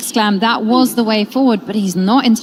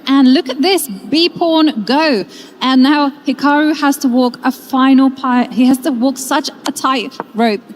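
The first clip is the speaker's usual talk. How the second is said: rising thrill at a brilliant move; excited; 3 semitones higher than usual. Real, not acted. Commentator reacts to a shock move.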